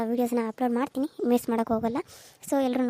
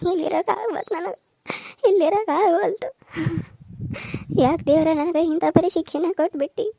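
grieving widow; 3 semitones higher than usual. Acted. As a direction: cry it out like a new widow in his house. Widow lamenting again.

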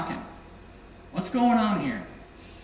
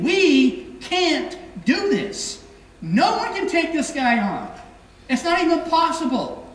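defeated crowd; 6 semitones higher than usual. Retold or imitated. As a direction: drag out "We can't" like giving up. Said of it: "the Israelite army was saying".

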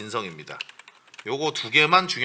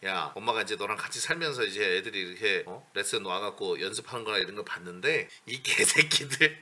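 mother's quiet confession; 5 semitones lower, 9 dB quieter than usual. Retold or imitated. Mother's later confession, acted out.

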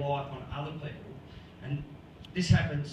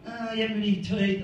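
light jeer, a little raised; mock taunt; 4 semitones higher, 4 dB louder, faster than usual. Someone jeering at a Collingwood supporter, mock taunt. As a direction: tease like a heckler, half in fun.

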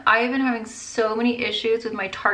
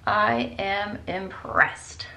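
slow, hushed whisper of admiration; awed whisper; much slower than usual. Real, not acted. Vlogger whispering in awe at her eyeshadow. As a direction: breathe it out in awe.

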